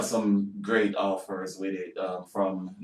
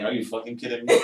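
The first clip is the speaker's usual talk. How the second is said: incredulous, laughing through it; laughing disbelief; 2 semitones higher, 3 dB louder than usual. Retold or imitated. Actor retelling his reaction to the crew. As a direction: laugh at the absurdity. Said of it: "And I was like".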